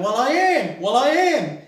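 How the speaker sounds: high, loud struggling protest; strained protest. Retold or imitated. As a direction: insist while wrestling a pig. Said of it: "Ivan's going".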